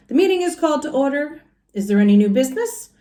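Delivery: fast, official gavel-rap announcement; brisk mayor. Acted. Mayor Honeypot opening the town meeting, fast and official. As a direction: call the meeting to order briskly. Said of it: "He rapped on the desk with a gavel".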